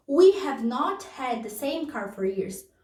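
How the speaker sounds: slow teacher model. Shown as a demonstration. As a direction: let the students hear every word. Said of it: "repeats example sentence".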